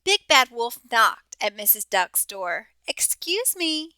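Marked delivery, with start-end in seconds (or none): 2.9-4.0 sweetly called. A narrator's reading. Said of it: "he called sweetly".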